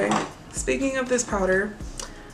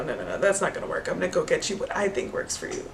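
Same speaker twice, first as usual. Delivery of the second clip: brushing-off saleslady; 4 semitones lower, 5 dB quieter, faster than usual. Retold or imitated. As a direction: lower and fast, dismissive no-no-no.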